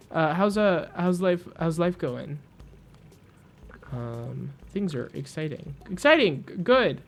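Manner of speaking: lightly voiced fast, stammering character; a touch of a twitchy Mechanist making small talk; jumpy Mechanist. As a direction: rush the words out nervously. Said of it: "barely registers my response".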